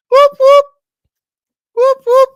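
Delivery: high, loud celebratory whoops; whoop celebration. Real, not acted. Fan celebrating the striker leaving, loud high whoops. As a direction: cheer it like a siren.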